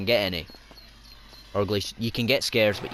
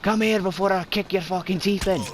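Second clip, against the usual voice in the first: higher-pitched aggressive challenge; hammed-up hard-man threat, higher pitched; mock-threatening; 7 semitones higher than usual. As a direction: call them out for a fight. Threatening an opponent in game.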